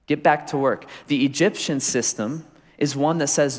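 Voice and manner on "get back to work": mild mock slave-driver bark, slowed; a preacher hamming up Pharaoh's commands; Pharaoh shouting orders. Preacher voicing Pharaoh ordering slaves back to work, mock shout. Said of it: "he says".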